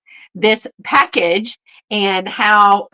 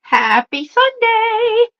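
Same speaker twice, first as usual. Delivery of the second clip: sing-song greeting; 13 semitones higher, much slower than usual. Real, not acted. Sing-song Sunday greeting to viewers.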